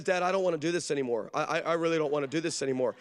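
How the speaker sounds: low, rushed mock pleading; nervous backing out. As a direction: imitate a kid hurriedly backing out. Daughter losing nerve, voiced by dad.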